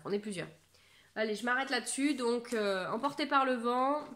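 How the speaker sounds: ordinary talk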